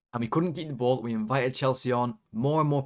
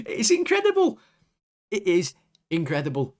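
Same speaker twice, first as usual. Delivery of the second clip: very high, loud squeal of disbelief; real exasperated shriek; incredulous outburst; 7 semitones higher, 5 dB louder than usual. Real, not acted. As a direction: squeak it out after a disbelieving laugh. Laughing in disbelief at referee.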